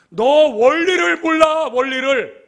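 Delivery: high, loud, drawn-out jeer; shouted taunt. Acted. Preacher replaying the bully's taunt at listeners, shouted. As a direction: stretch the accusation out in a high shout.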